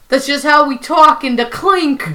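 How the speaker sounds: lightly put-on New York accent; a hint of bad New York convict accent; Prison Mike. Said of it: "really bad New York accent".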